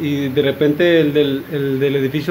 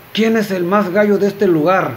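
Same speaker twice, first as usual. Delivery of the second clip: higher-pitched call to the room, mildly raised; repeated shouted challenge; 4 semitones higher than usual. Acted. Gunslinger repeats his challenge to a silent cantina, mild mock shout. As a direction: throw down a challenge in a mock yell. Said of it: "el señor vuelve a decir".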